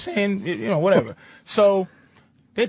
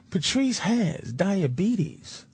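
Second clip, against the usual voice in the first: careful explaining husband; 5 semitones lower than usual. Retold or imitated. Husband explains Patrice's illness to his wife, imitated careful slowness.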